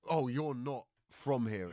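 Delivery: slow, drawn-out realisation; suspicious local. Retold or imitated. Locals hearing the comedian's accent, slow mock suspicion. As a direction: imitate a local slowly clocking an outsider. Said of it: "they're gonna be like".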